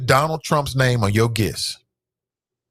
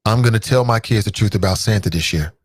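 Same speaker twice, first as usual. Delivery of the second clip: pledge recital; 3 semitones lower than usual. Shown as a demonstration. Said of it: "Say it with me now".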